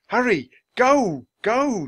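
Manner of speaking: high, loud urging; urgent calling. A narrator's reading. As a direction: spur the elephant on at full voice. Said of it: "Jack called to Morning Breeze".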